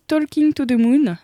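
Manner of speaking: The song title said the English way, self-mockingly; announcing the song title in a jokey English accent. Shown as a demonstration. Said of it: "avec mon magnifique accent anglais".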